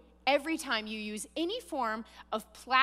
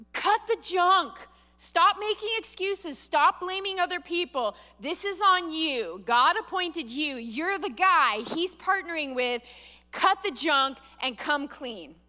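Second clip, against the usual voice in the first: firm rebuke; 3 semitones higher, 3 dB louder than usual. Acted. Preacher voicing God's rebuke.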